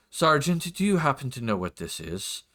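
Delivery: lightly voiced formal lord; a hint of a nobleman calling on his sergeant; lord's voice. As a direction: put a pointed, polite question to an officer. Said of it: "do my best for his voice".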